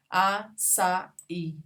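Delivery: "Açaí" as a-ça-í, spaced out; syllable by syllable. Shown as a demonstration. Teacher showing vowels that separate, syllable by syllable. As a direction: pause between each syllable of "Açaí". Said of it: "As vogais se separam".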